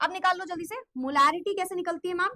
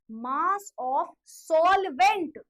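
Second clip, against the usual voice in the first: slow, loud stretched-out phrase; teacher stressing the key term loudly; loud emphasis; 5 dB louder, much slower than usual. Shown as a demonstration. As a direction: drag it out loud so they remember. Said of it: "अब मैंने इतनी तेज क्यों चिल्ला के बोला".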